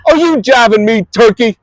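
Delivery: disbelieving. Real, not acted. Disbelief at parade news.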